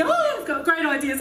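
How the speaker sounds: high burst of creative excitement; manic high. Acted. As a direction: act out a giddy creative high. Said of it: "up and down, up and down, crazy".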